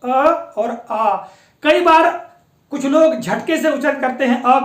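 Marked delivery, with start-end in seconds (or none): 0.0-0.1 "अ" said short and relaxed, no jerk; a quick neutral "अ"; short a vowel. Shown as a demonstration. Teacher modelling the vowel for students, short "अ". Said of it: "आप उच्चारण करके देख लीजिएगा". 0.9-1.2 "आ" held long with the mouth open; long aa vowel. Shown as a demonstration. Teacher modelling the vowel for students, long "आ". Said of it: "आप उच्चारण करके देख लीजिएगा".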